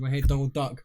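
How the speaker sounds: strangled duck quack voice; Donald Duck voice. Acted. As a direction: squeeze it out like a choking duck. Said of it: "Sounds like you're choking".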